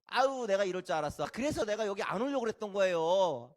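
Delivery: loud, indignant griping; sarcastic anger. Acted. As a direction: complain crossly with a mocking edge. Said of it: "성내며 하나님을 지금 비꼬고". (성내며 비꼬는 말투)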